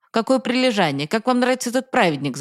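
sarcastic grumble. Acted. Father mocking his son's hurry to school, sarcastic grumbling. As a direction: sneer at the boy's fake diligence. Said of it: "заворчал отец".

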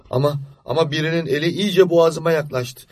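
put-on a child whispering fears to himself in the dark; frightened child. Boy hiding from night witches under the quilt, frightened.

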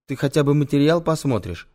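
mildly imploring request; pleading. Acted. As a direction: beg him to at least take a look. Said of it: "Умоляюще смотрит на меня Антон".

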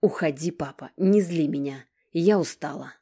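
loud, spiteful dismissal; spiteful snap. Acted. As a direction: cut him off with spite. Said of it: "злобно отрезала".

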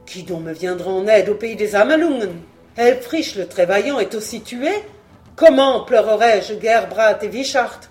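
plainte forte et désespérée; un roi qui a tout perdu; lamentation. Acted. Dietrich se lamente sur ses pertes. (lamentation forte)

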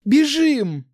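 high, loud cry to run; excited yell to get moving; urgent exclamation. A narrator's reading. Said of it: "воскликнула она".

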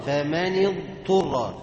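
فمن اضطر slowly, ض sounded fully before ط; slow demo of فمن اضطر; correct dad then ta. Shown as a demonstration. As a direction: model فمن اضطر with a distinct ض. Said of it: "هات الضاد الأول وبعدين الطاء".

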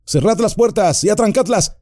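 high, commanding shout; shouted order. Acted. Aragorn ordering the company to bar the doors, commanding shout. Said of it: "gritó Aragorn".

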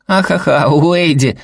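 put-on high, laughing kid's voice; little boy cracking up; giggling child. A narrator's reading. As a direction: giggle at dad's nickname. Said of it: "хихикнул Сэл".

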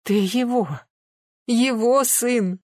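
slow, high, loud, crying out through tears; crying shout. A narrator's reading. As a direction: cry it out between sobs. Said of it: "выкрикнула, плача, Нюта".

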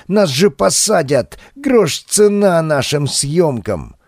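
high frantic protest; alarmed shout. Acted. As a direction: yell in alarm at the damage. Жечка panics at the attack.

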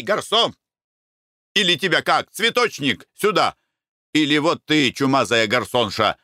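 lightly voiced bustling Konurin, calling out; a hint of a rowdy merchant hailing sellers; fussing merchant. Konurin fussily hails the flower sellers, mildly shouting. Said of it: "суетился он".

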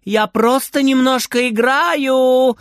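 put-on high, slow child's yell; shouting back. Frieder shouting back to grandma, high and slow. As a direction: shout back innocently so she hears. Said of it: "кричит Фридер в ответ".

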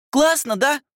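put-on high, bright-eyed child asking; little girl voice. Little sister calling down to her brother, high child voice.

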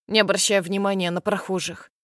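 plain reading voice

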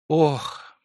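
moan. A narrator's reading. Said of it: "простонала она".

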